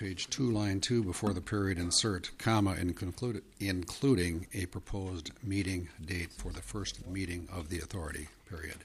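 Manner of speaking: reading the amendment back aloud; dictating. Shown as a demonstration. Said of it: "would you read that back to me".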